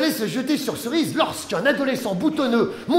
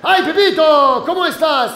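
mock Spanish greeting, pitched up; a hammed-up Spanish hello; Spanish accent; 4 semitones higher, 6 dB louder than usual. Spanish character greets Pepito. (accent espagnol un peu forcé)

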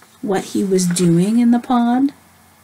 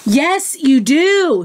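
high-pitched mock shout back; mild, hammed-up shouted retort; storybook shout; 6 semitones higher, slower than usual. A narrator's reading. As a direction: insist with the voice thrown up high. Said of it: "shouted the Big Fluffy Bear".

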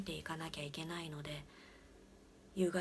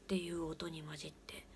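ordinary delivery

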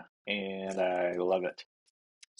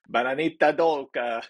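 attempted Spanish accent on bananita dolca, pitched up; bad Spanish accent; 4 semitones higher, 4 dB louder than usual. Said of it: "Sorry, my accent is terrible".

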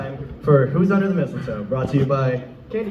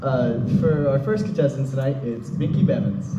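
game show host; 4 dB louder than usual. Acted. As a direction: sell it like a cheesy TV host.

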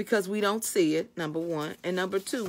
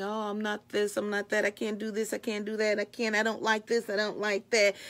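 quieter, level-pitched running list of complaints; negative self-talk; 3 dB quieter than usual. Acted. Believer listing everything they can't do, in a subdued monotone. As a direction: rattle off self-doubts in a lightly acted monotone.

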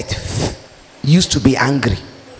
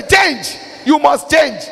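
mock shouted demand; 5 semitones higher, slower than usual. Preacher mimics a church crying at sinners to change. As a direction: bark the order to change at them.

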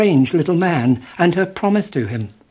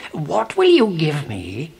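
strange little man voice. A narrator's reading. Mannikin voiced in story.

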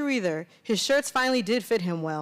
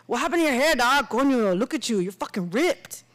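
bro voice; 4 semitones higher, 3 dB louder than usual. Acted. Guy's voiced bro character.

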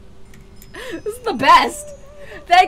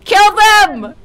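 drawn-out call, a little raised; taunting call; 2 semitones higher, slower than usual. Real, not acted. Player taunting a ghost to make it kill their friends, taunting call. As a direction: call out the name slowly to summon it.

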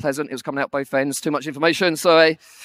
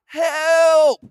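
higher, mock cry for help; shout for help; 7 semitones higher, 4 dB louder than usual. Drowning swimmer calling to instructor, mock shout. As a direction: call out for help, hammed-up. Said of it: "So I shout out".

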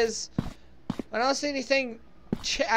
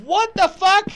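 louder, higher shocked repeat; 5 semitones higher, 5 dB louder, slower than usual. Real, not acted. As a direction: blurt it out, really rattled. Repeats after second scare.

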